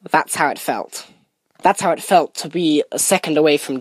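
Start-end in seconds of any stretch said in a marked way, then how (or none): 0.1-1.0 low, soft, near-whispered words; hushed mutter. Acted. King leans in close to the condemned man, low soft mutter. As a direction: let it sink in, barely above a breath. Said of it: "mutters to him, almost in a whisper".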